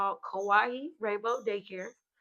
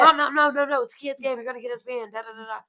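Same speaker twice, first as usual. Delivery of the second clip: put-on higher, louder, laughing plea of a kid; panicked son pleading; 4 semitones higher, 6 dB louder than usual. Son begging his mom to stop, laughing and high. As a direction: beg mom not to get banned, half laughing. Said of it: "So Kingston's like".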